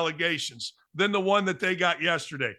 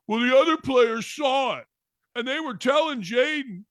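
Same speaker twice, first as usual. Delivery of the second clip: mocking high shout; 7 semitones higher than usual. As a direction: shout it like a whiny sports parent. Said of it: "what's coming is this".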